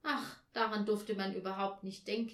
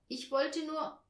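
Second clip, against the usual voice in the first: higher, hoarse hesitant start; 8 semitones higher, 4 dB louder than usual. A narrator's reading. Olaf struggles to confess about the key, hoarse. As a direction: begin haltingly, a touch hoarse. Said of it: "Seine Stimme klang ganz heiser".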